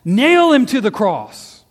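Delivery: high, drawn-out, full-force yell; crowd yelling. A narrator's reading. Chief priests and servants demanding crucifixion, yelling. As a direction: bellow it like a mob demanding death. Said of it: "they yelled out".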